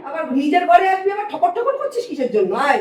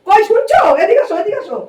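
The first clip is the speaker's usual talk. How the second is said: calling out; 3 semitones higher, 6 dB louder than usual. Acted. Calling someone over, not being heard.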